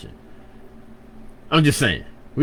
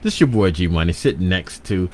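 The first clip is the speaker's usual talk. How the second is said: radio announcer; 3 semitones lower than usual. Shown as a demonstration. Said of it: "the whole thing is like a pimp".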